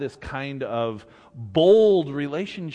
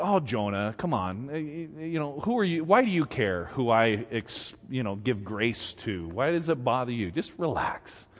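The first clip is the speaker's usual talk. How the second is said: softer and lower, patient chiding; gentle God; 4 semitones lower, 6 dB quieter than usual. Retold or imitated. God gently chiding a pouting Jonah. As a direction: coax a sulking child. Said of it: "God, you know, said".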